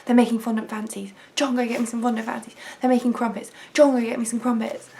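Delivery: quick, excited orders to a husband; mock urgent craving. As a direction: re-enact a pregnant craving in a rush. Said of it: "I'd be like".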